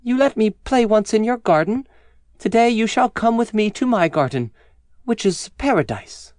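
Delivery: put-on high, serene child figure; child inviting the giant to paradise; child's voice. A narrator's reading. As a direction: speak high as the little child. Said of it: "the child smiled on the giant and said to him".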